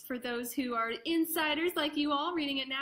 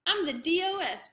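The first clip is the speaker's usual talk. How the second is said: put-on a touch of a proud kid, louder; proud declaration; 5 semitones higher, 4 dB louder than usual. Brandon proudly telling his family his new title, mock proud. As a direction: announce it with pride. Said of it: "Brandon declared".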